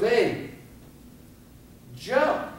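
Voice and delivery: put-on high, sharp call to a child; mock calling out. Mother urging her child to jump from the fire escape, calling out high.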